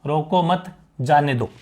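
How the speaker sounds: "रोको मत" साथ, फिर "जाने दो"; "मत" के बाद विराम. Shown as a demonstration. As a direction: break after "मत", let "जाने दो" fall. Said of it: "एक तो ये बात कही मैंने". ("मत" पर रुककर "जाने दो")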